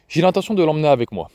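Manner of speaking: calm, settled announcement, quick; flat firm statement. Acted. Father telling grandmother he takes the boy, flat and firm. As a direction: state it as already decided. Gen announces taking his son.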